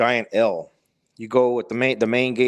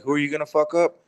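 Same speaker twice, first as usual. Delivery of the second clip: higher-pitched retold taunt; mildly angry dog; 4 semitones higher, faster than usual. Black Doberman taunts man frozen by fear, mildly angry. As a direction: lightly voice a dog's repeated challenge. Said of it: "he's really angry".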